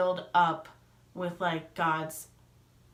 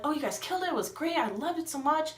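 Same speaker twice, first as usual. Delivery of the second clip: acted gushing praise; 8 semitones higher than usual. Praising a friend after the show, high gushing enthusiasm. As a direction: gush in a high-pitched voice.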